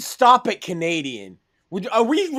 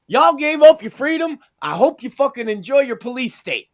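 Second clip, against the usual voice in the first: taunting; 6 semitones higher, 4 dB louder than usual. Real, not acted. Taunting Canadians.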